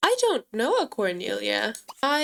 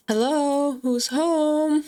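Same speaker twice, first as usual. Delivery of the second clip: calling out; 4 semitones higher, slower than usual. Real, not acted. Calling out at a door.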